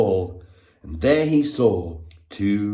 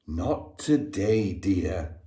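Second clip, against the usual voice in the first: sighing mother; 4 semitones lower, 6 dB quieter, slower than usual. A narrator's reading. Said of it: "her mother sighed".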